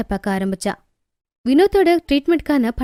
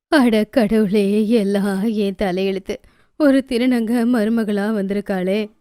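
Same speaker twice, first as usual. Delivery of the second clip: slow, lower wail of despair; lamenting mother-in-law; 4 semitones lower, slower than usual. Acted. Mother-in-law bemoans her fate, slow and low. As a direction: drag out the lament.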